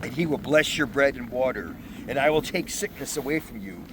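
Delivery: loud, measured Bible reading; proclaiming scripture to the congregation. Acted. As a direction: read the passage out like from the pulpit. Reads scripture aloud.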